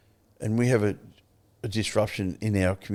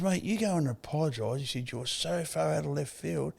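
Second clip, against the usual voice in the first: higher-pitched firm reprimand; retold straight talk; 6 semitones higher, 4 dB quieter than usual. Advisor ordering his mate to apologise, mildly exasperated. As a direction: tell your mate straight, pitch lifted. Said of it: "gives it to you fucking straight".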